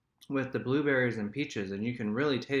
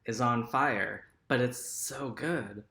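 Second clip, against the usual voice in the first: mouth burning from spicy food. Real, not acted. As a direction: speak while your mouth is on fire. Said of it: "literally on fire right now".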